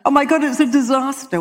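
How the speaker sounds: high, loud mock wail; mock panic. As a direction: ham up a passenger's panic. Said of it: "She went".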